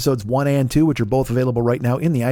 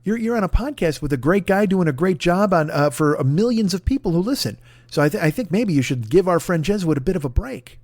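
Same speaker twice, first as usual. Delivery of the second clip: mock pleading; 4 semitones higher than usual. Pleading with Dana Unicorn to lighten up, high and coaxing. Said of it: "But I will say".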